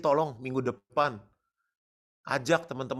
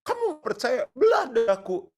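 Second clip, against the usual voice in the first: mocking challenger; 11 semitones higher, 7 dB louder than usual. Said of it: "Kan orang bilang gini".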